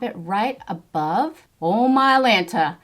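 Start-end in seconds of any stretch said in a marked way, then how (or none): 1.6-2.8 loud, higher burst of surprise; startled exclamation. Real, not acted. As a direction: blurt it out, caught off guard. Startled by too much blush pigment.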